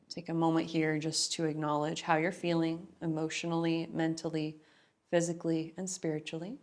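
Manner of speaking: calm, even guidance with long pauses; guided breathing meditation. Real, not acted. Yoga teacher guides class into natural breath, calm meditative guidance. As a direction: gently settle them into their breath.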